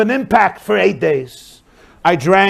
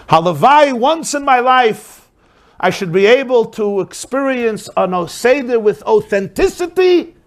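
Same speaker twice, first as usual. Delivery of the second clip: yearning lament; 4 semitones higher than usual. Acted. Rebbe longs aloud, moved.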